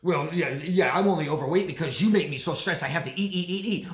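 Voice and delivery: mock defensive rant, quick in the middle; hammed-up accusing excuse; blaming. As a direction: imitate someone shifting the blame. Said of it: "Or they blame you".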